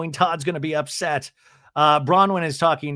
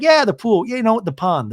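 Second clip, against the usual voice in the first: Chevy Chase impression; 7 semitones higher, 4 dB louder than usual. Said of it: "Chevy's like".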